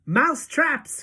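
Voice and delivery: snatch the word up eagerly; excited cry. Acted. Witches echo their leader, excited high cry. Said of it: "cried the witches".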